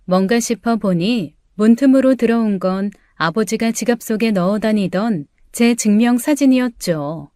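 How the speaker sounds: ordinary delivery, nothing marked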